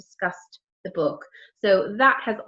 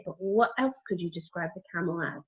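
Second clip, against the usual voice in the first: stage whisper; 3 semitones lower, 6 dB quieter than usual. Acted. Whispered question to children.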